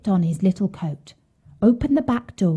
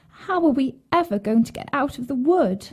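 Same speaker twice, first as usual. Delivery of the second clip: higher, understated plaintive question; a touch of a worried little girl; mildly tearful; 5 semitones higher than usual. A narrator's reading. Gretel asks how they will get out, mildly tearful. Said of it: "Gretel began to cry and said".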